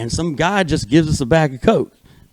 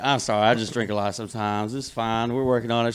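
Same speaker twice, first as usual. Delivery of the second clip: lower, softly downplaying it; smooth it over quietly, as if no big deal; mildly apologetic, low-key retelling; retold sheepish excuse; 4 semitones lower, 9 dB quieter than usual. Excusing himself in retold morning-after talk.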